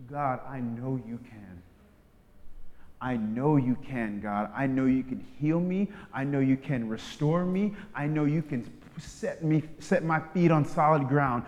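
slow, sure, earnest; confident prayer. Shown as a demonstration. Believer praying to God, slow and sure. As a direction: pray with quiet certainty. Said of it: "What if our prayers change to".

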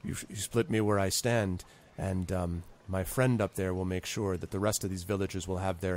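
a hint of a cold, smug villain; calm menace, barely above his own voice; lightly voiced villain.

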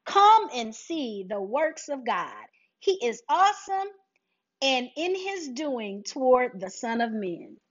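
slow, deliberate Bible reading; reading the psalm aloud to listeners; scripture reading. Acted. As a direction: proclaim the verses slowly. Reads further psalm verses.

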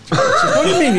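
high, loud laughing; cracking up while quoting the boss. Real, not acted. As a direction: burst out laughing mid-quote.

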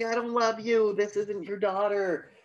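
high-pitched heated retort; imitated upset wife. Wife answers her husband on the pier, high mock outburst. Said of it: "She's like".

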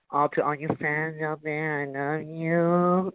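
slow, breathy-high celebrity coo; drawn-out soft celebrity voice; high pitched fan love. Shown as a demonstration. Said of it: "But you have to say it in a real high pitch".

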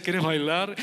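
low, self-assured invitation; smooth, cocky jock asking a girl to dance; confident ask. Retold or imitated. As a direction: ask her to dance like you own the room. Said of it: "con esa seguridad".

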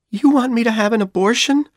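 shocked angry outburst. A narrator's reading. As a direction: fling the question back in anger. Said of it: "she said angrily".

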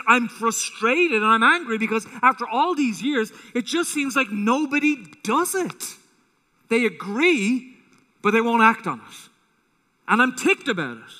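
mild mock anger, slowing on They agree; retold frustration. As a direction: voice a frustrated author venting. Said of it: "and he was angry".

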